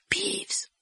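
low-voiced rasp, mostly breath; husky, ghostly summons; hoarse voice. A narrator's reading. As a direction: call the name in a hoarse disguise. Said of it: "dit-il d'une voix rauque".

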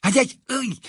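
high yelp of pain; cry of pain. A narrator's reading. Pupils hurt by telescopes.

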